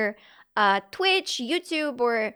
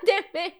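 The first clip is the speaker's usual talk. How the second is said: mock metal growl; 4 semitones higher than usual. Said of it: "Disturbed reference".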